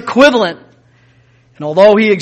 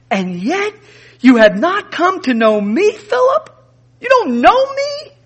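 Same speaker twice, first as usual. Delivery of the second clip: Jesus, offended reproof; 8 semitones higher than usual. Acted. Jesus to Philip after being asked to show the Father, offended reproof. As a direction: rebuke him in raised, questioning pitch. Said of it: "Jesus reproved him. It was offensive to him".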